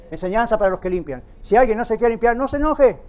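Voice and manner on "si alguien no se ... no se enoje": exhortación enfática. Real, not acted. Exhorta a la congregación.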